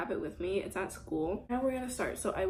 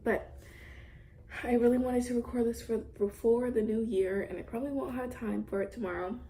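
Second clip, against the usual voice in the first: mouth full; 2 semitones higher than usual. Real, not acted. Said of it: "and I'm eating".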